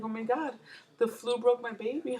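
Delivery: high, hammed-up half-sob; mock crying. Mom joking that the flu broke her baby, mock teary wail. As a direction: play-act a teary wail over the baby. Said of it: "I was like".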